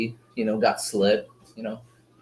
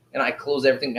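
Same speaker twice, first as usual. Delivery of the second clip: ordinary talk, nothing marked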